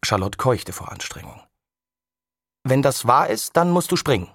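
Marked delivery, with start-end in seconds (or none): 2.6-4.3 put-on girl's higher, louder dare; a touch of a taunting girl; daring challenge. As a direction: call his bluff. Girl dares boy.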